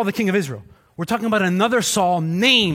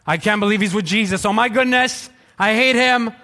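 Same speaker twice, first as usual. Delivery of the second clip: mock grumble; 3 dB louder than usual. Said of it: "You're like".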